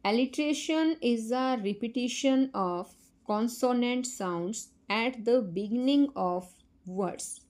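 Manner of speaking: very slow, careful reading-aloud voice; slow textbook reading. Acted. Teacher reading a definition to children, very slow and careful. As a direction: spell out the definition slowly, word by word, for the class.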